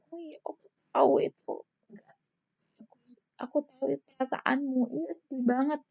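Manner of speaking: high, fast, mock-tearful sympathy; mock sympathetic crying. Shown as a demonstration. Nurse overdoing sympathy, mock tearful. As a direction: act out crying along with the patient. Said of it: "kalian ikut menangis".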